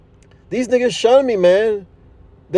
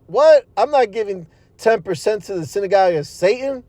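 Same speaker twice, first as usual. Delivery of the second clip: indignant. Retold or imitated. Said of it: "I said out loud".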